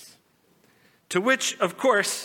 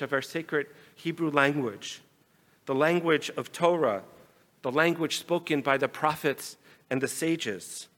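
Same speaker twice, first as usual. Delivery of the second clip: compassionate; 3 dB quieter than usual. Acted. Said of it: "looked at them with compassion".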